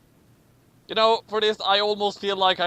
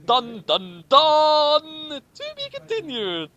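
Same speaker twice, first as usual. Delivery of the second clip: mock cliffhanger; 9 semitones higher, 4 dB louder, slower than usual. Mock dramatic ending.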